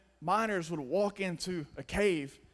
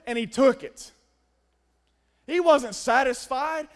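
emphatic, louder preaching delivery; forceful preaching; 6 semitones higher, 6 dB louder than usual. Real, not acted. Preacher stressing the rich man's greed to the congregation, forceful. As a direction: preach it hard, stretching key words.

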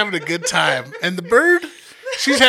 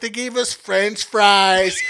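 slow proud announcement; 3 semitones higher, much slower than usual. Retold or imitated. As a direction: announce it slowly. Drunk friend's proud announcement.

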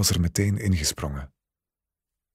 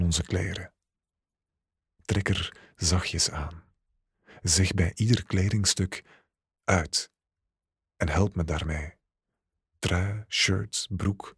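intimate story reading. A narrator's reading. Erotic second-person story read aloud.

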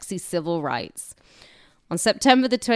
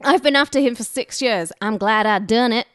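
mock shout, somewhat louder and higher; 4 semitones higher, 4 dB louder than usual. The attacker shouting at bystanders after the stabbing, hammed-up yell. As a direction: yell it out like she's proud of it. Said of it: "And she shouts".

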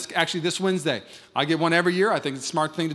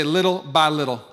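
call and response; 4 dB louder than usual. Shown as a demonstration. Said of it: "Everybody say".

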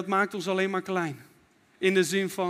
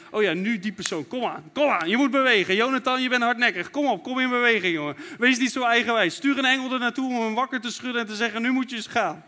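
lightly voiced God urging someone on, a bit louder; voicing God; 4 dB louder than usual. Preacher imagines God in a control room, lightly voiced. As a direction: play God nudging a stubborn man, half-joking. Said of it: "en zo van".

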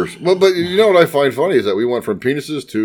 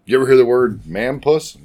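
deadpan. Real, not acted. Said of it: "Your delivery was just so, as a matter of fact".

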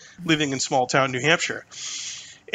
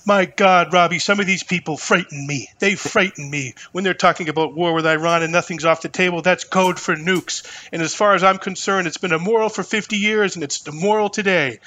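a lightly voiced, louder, fired-up old senator; Mike Gravel impression; 3 semitones higher, 4 dB louder than usual. Podcaster imitating a senator's debate rant, mildly impassioned. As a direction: rail against war like an indignant old statesman. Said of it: "I gotta try and do my Gravel impression".

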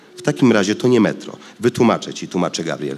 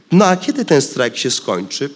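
a mild barb, pitched up; venomous; 6 semitones higher, 4 dB louder than usual. A narrator's reading. Girl needles her uncle, mildly spiteful. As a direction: jab at him with spite. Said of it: "pyta zjadliwym głosem Zazi".

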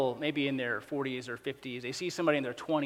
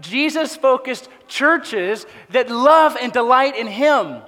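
louder, slowing, climbing to a rousing peak; full-force preaching; 7 semitones higher, 10 dB louder, slower than usual. Acted. Pastor urging his congregation, full-force preaching. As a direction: drive it home like the sermon's climax.

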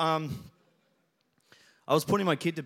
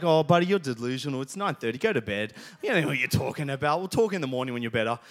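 dismissive dad; 5 semitones lower, faster than usual. Retold or imitated. Dad dismissing child at bedtime.

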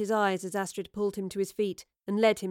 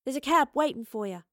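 raised, higher-pitched call; calling back; 5 semitones higher, 6 dB louder than usual. A narrator's reading. Astrid tells Oscar his cab waits, calling back. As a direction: sing out helpfully across a room. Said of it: "Astrid called back across".

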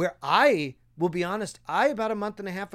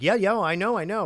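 eager interjection; 3 semitones higher, 5 dB louder than usual. Retold or imitated. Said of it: "stop myself from cutting you off".

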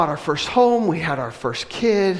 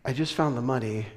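soft revelation; 5 semitones lower, 6 dB quieter than usual. Retold or imitated. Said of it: "I was like".

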